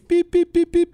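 high, loud imitated computer beeps. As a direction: chirp out beep beep like a computer screen. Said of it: "That's the sound computer screens make".

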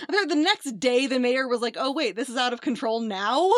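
loud incredulous question; loud, baffled check on what was just said. Real, not acted. Listener reacts incredulously to the story.

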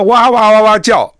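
high, loud imitation of yapping; noisy mimicry of someone shouting away; mock yelling. Mimics a boss yelling noisily.

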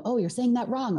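a hint of a nagging inner critic; lightly voiced scolding inner critic; mock scolding; critical inner voice. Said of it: "logical head that's saying".

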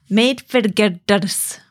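"made for girders" very slowly in faked Scottish, straining at the Rs; slow, laboured Scottish attempt at "made for girders"; attempted Scottish accent. Shown as a demonstration. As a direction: try rolling the Rs in "girders", drawn out, badly Scottish. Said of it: "I can't roll my eyes".

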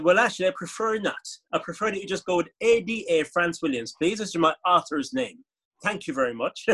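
put-on Caribbean accent; politely firm, in a parody Caribbean accent; Caribbean Man. Author asking a journalist to use the pen name, Caribbean accent. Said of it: "when I was doing Caribbean Man".

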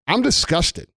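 real disgust, spat out at the viewers. Real, not acted. Ranting to viewers about lockdown, openly disgusted. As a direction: say "I'm disgusted" with the word "disgusted" falling hard at the end. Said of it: "I'm sure you've gathered that from my tone of voice".

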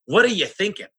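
high-pitched mock exasperation; exasperated challenge. Consultant challenging owners who underpay staff, exasperated. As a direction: act out scolding a foolish client. Acted scolding of penny-pinching owners.

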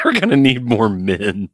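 amused, laughing mimicry of the line; cracking up while quoting; laughing echo. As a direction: repeat it through laughter. Laughing echo of the Scottish bit.

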